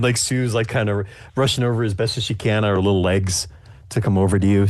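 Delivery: normal talking voice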